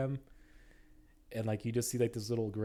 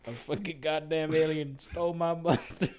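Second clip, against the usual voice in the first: redneck voice; 6 semitones higher, 3 dB louder than usual. Retold or imitated. Repeating the redneck line.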